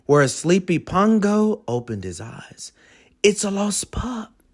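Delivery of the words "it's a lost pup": hushed father; whispered. Acted. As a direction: whisper so as not to wake anyone. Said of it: "he whispered to Perdita".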